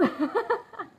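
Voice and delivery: high bursting laugh through tears; teary laugh. Real, not acted. Laughs at her own tears.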